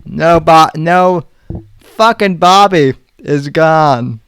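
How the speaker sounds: put-on lightly done Boston accent; a hint of a Boston accent. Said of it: "I was trying to do a Boston accent".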